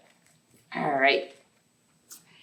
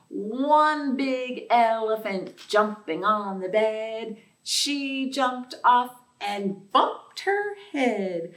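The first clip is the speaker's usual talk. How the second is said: sing-song nursery rhyme chant; counting rhyme; slower than usual. Acted. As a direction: bounce through it like a playground rhyme. Rhyme verse.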